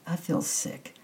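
put-on sick child's breathy whisper. A narrator's reading. Girl tells the housekeeper she feels sick, whispering. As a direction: whisper it, feeling ill, close to her. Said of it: "I whispered".

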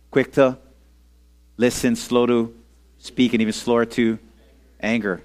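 measured phrases with pauses between; leading recitation. Shown as a demonstration. Preacher has everyone repeat the verse together, measured call-along. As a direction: lead a group saying it together. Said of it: "let's say it together".

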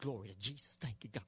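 low, very soft praise; overheard praise. Retold or imitated. Boy overhears dad praising at work, soft low praise. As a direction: murmur thanks as if heard from another room. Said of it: "And I heard, oh".

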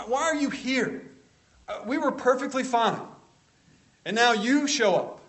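high, loud indignant protest; acted hostility. Preacher paraphrases the demon objecting to Jesus's presence, acted hostility. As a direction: act out a demon challenging an unwelcome visitor. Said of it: "There's some hostility here".

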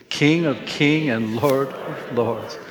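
each word drawn out slowly for all to say together; slow proclamation. Shown as a demonstration. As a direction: lead the room through it slowly. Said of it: "Can we say that out loud".

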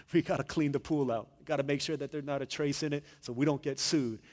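lightly put-on hotel-guy voice; hotel employee imitation. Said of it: "this is the way he talks".

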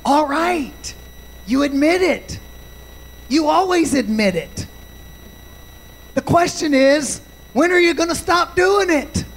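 imitating a parent at the end of patience; exasperated father. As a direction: voice a father who is fed up, lightly acted. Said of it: "exasperated, saying".

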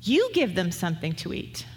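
a calm, firm command; imperative. Retold or imitated. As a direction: say it as a plain order, no room for debate. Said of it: "this is an imperative voice".

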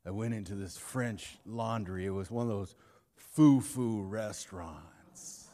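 a hint of a tough guy getting choked up telling it; low, hushed retelling of a moved friend; Jake's low voice. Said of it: "He said".

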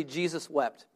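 Jesus wept softly, for the congregation to echo; quiet repeat. Shown as a demonstration. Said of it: "Everyone say this. Say".

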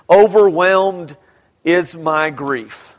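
"Overwhelmed" drawn out slowly, then a pause before the rest; stress on Overwhelmed. Shown as a demonstration. Preacher showing Greek word order, "Overwhelmed" slow and emphasised. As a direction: lean hard on "Overwhelmed", slow and weighty. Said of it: "put emphasis on that very first word".

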